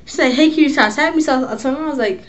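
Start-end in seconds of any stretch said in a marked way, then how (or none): 0.3-1.2 higher, mock flirty lady voice; imitating the lady. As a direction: play her teasing come-on. Retelling the flirty lady's words.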